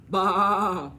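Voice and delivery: a loud bleating baa; mock sheep baa. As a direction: bleat at him loudly. Animals scare the farmer.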